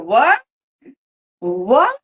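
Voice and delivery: high, baffled questions; mock disbelief. Reacting to boyfriend saying he was tased, high mock surprise. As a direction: play innocent and shocked.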